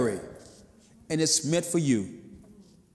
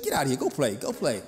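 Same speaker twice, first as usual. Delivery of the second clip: gruff mama; 4 semitones lower than usual. Retold or imitated. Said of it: "she said".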